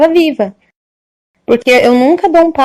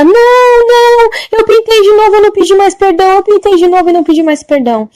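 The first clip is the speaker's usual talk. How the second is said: put-on desperate old lady; 9 semitones higher, 3 dB louder than usual. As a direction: admit it in a high frightened voice. Old woman admits, high and slow. (velhinha desesperada, voz aguda e arrastada)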